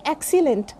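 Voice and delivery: excellent as EK-si-lent, full e at the end; common mispronunciation. Shown as a demonstration. Teacher showing what people generally say, EK-si-lent. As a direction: say excellent with clear i and e vowels. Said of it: "this is not excellent".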